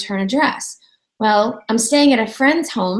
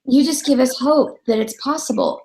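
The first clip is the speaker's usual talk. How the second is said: heartfelt praise; 2 semitones higher than usual. Retold or imitated. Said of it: "it was so heartfelt".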